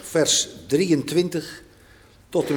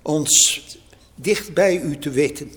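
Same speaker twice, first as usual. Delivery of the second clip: calm, measured prayer voice. Acted. Pastor leads opening prayer.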